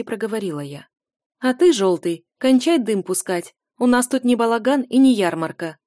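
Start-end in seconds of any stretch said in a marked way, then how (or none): 1.4-5.8 scolding. Acted. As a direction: raise your voice and tell him off. Heroine scolds the mercenaries. (громкий строгий окрик)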